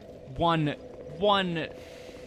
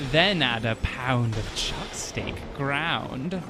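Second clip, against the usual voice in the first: crone voice. Acted. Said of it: "can you read this next one in the, the crone voice".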